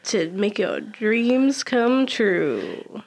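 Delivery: slow late-night radio host; smooth it out like a late-night DJ; sultry radio voice. Pretend. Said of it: "your sultry radio voice".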